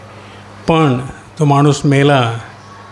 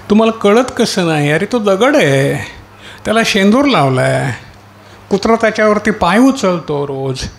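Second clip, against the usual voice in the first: calling to the simple; 5 semitones higher than usual. Acted. Preacher calls to simple ones.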